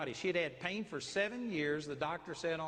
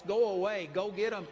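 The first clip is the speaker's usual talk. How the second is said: loud "go get 'em" to a dog; dog command; 3 semitones higher, 6 dB louder than usual. Shown as a demonstration.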